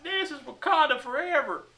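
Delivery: high-pitched put-on African accent; hammed-up Wakandan-style African accent; mock African accent. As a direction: proclaim it in a caricatured African accent. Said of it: "is that the accent they have?".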